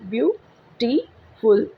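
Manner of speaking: ब्यूटीफुल split slowly into ब्यू-टी-फुल; syllable by syllable. Shown as a demonstration. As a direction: break ब्यूटीफुल into three slow parts. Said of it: "तीन हिस्सों में divide करें". (ब्यूटीफुल को धीरे-धीरे तीन हिस्सों में बोलें)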